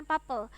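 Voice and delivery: "people" mispronounced as "papel"; Korean-speaker pronunciation. Retold or imitated. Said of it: "mereka mengucapkan". (meniru pelafalan "papel" untuk "people")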